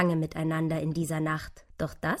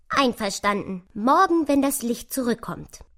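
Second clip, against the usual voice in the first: lively, higher squirrel voice; zustimmendes Eichhörnchen; 6 semitones higher, 5 dB louder than usual. Acted. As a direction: agree brightly and with energy. Squirrel agrees to help. (lebhaft zustimmendes Eichhörnchen)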